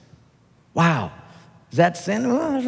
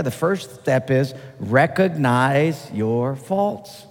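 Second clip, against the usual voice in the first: slow and deliberate; 3 semitones lower, slower than usual. Shown as a demonstration. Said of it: "teaching slowly".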